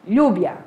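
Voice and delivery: Lluvia with a Portuguese LH onset, "lhubia". Shown as a demonstration. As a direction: say Lluvia as "LYOO-bia". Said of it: "o L L com o som do L H".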